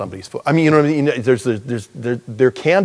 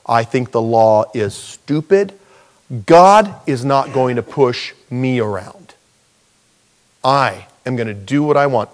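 defiant sinner; 4 dB louder than usual. Retold or imitated. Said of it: "This is somebody who says".

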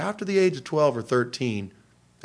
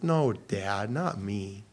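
softly imitating a daughter brushing it off; a hushed, lightly voiced teen; quiet mock denial; 4 semitones lower, 6 dB quieter, much slower than usual. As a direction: daughter waving off her dad, softly. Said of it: "She goes".

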